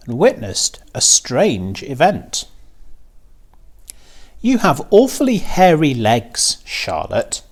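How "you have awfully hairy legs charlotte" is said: high, lightly voiced young pig; a pig teasing the spider; Wilbur the pig. A narrator's reading. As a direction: voice the pig a little higher. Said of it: "said Wilbur".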